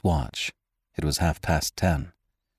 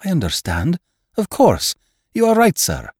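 much higher and louder, rising with eagerness; excited agreement; 13 semitones higher, 5 dB louder than usual. A narrator's reading. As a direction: burst out in thrilled agreement. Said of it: "cried his son excitedly".

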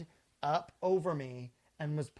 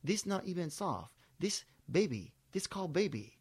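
masseur's broken English in a mock Asian accent; imitated Asian accent. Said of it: "it's funnier with the accent".

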